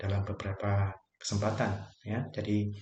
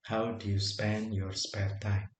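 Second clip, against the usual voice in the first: very slow model phrase; 4 dB quieter, much slower than usual. Shown as a demonstration.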